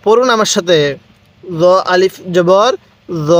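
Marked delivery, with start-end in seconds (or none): 1.4-3.3 র said soft, with a light untrilled tap, slow; teacher models a gentle র for students to copy. Shown as a demonstration. Teacher to class, a soft untrilled র. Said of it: "রটা নরম করে উচ্চারণ করব".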